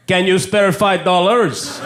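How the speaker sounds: slow mock panhandler plea; panhandler asking. Comedian imitating a French Canadian panhandler, slow plea. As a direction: drawl it like a guy asking for change. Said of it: "hearing a guy say".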